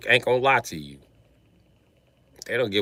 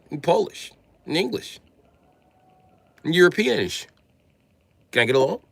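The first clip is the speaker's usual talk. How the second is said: mock white guy; 7 semitones higher, 5 dB louder than usual. Mocking a white guy bragging.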